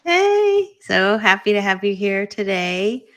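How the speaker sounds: high, loud, happy hello; delighted welcome. Real, not acted. Host happy to have David here today, delighted welcome. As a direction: welcome the guest with real delight.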